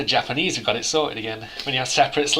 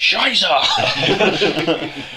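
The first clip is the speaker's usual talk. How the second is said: mock German; 5 semitones higher, 5 dB louder than usual. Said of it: "You just scream at everyone".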